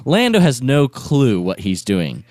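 ordinary talk

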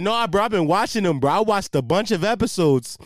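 lightly put-on dopey bro; hint of a mock Canadian dude; mock Canadian idiot coworker. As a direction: play the eager coworker for laughs. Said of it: "I give him this Canadian accent".

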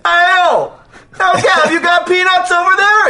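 loud high call across the room; yelling across. Pretend. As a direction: shout it over to a friend far away. Yelling across first class.

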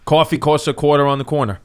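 New York accent on request; deliberate New York accent demo. Shown as a demonstration. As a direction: lean into the New York vowels of "coffee". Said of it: "trying to do the New York accent".

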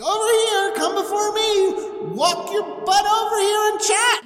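high, pushy calling over; God ordering Abram to come closer; impatient God. Retold or imitated. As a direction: hurry him along.

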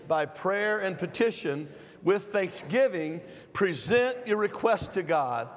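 slow, measured scripture reading; restrained reading. Shown as a demonstration. Preacher leading the church in reading, slow and restrained. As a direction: hold it back and read it slow. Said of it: "I'm gonna try to restrain myself".

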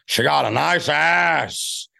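Pacino impression. Shown as a demonstration. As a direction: build into screaming Pacino. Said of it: "What's your best Pacino line".

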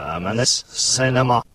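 reversed audio playback; the phrase run in reverse; played backwards. Shown as a demonstration. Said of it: "let's play it backwards".

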